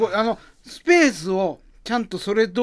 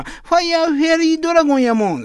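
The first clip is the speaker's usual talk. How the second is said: put-on excited boy; 12 semitones higher, 5 dB louder than usual. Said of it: "始まりの街というネタ".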